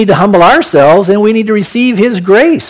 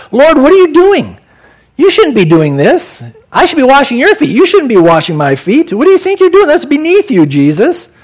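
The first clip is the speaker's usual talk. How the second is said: higher, indignant outburst at Jesus; offended protest; 5 semitones higher than usual. Retold or imitated. Peter protests to Jesus, mildly indignant and offended. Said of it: "Peter is very offended by his actions".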